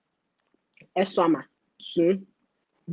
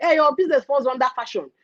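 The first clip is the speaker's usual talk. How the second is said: official's brush-off; 5 semitones higher than usual. Retold or imitated. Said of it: "Be like".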